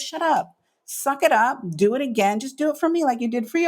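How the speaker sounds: high, brisk tough-love voice; bossy friend. Retold or imitated. Friend Lisa pushing her to start again, mock bossy. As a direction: tell her to get over it.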